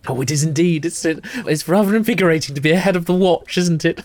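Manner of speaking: lightly voiced, hushed gossiping ladies; a hint of two scheming sisters telling a tale; conspiratorial twins. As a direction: lean in and share a secret. GM voicing the twins.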